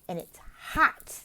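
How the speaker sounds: slow, simple explaining; very simple slow explanation. Shown as a demonstration. Tutor models a simple explanation, slowly. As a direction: spell it out slowly for a child. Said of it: "You can say".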